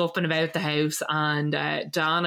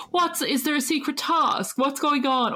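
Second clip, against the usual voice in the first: 1 confused Nadia; 8 semitones higher than usual. Retold or imitated. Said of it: "she's like".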